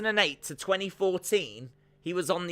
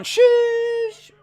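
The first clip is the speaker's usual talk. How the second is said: high, loud, drawn-out shush at the crowd; 10 dB louder than usual. Acted. Streamer shushing a rowdy crowd, loud high shush. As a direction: shush them down hard. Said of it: "I just shooshed everyone".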